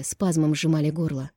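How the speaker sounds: ordinary delivery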